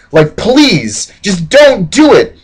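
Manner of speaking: slow, hammed-up begging; lightly acted, drawn-out plea; pleading. British begging colonists to spare the Indians, mild slow pleading.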